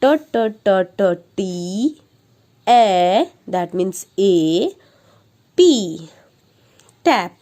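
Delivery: slow, repeated ब ब ब ब then letter names; teacher drilling letter sounds; phonics sounding out. Shown as a demonstration. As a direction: stretch each sound for a child. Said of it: "एक और example लेंगे टैप".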